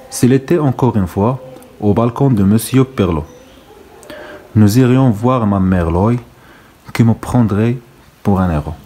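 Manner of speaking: slow, deliberate poem reading; poem recitation. Acted. Teacher reads the last stanza to pupils, slow recitation. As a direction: read the stanza out unhurriedly, line by line.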